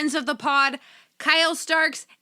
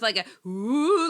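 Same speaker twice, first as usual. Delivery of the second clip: long, slow ghostly ooh; spooky ooh; slower than usual. Pretend. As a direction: moan it like a ghost. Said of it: "like a spooky sound".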